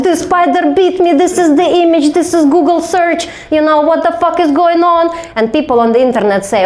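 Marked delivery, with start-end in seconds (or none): 0.0-5.0 high, hammed-up tearful complaint; mock tearful. Bitten patient making a video in tears, mock-tearful high voice. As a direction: imitate yourself wailing to the camera, pitched way up. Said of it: "I'm in tears, like".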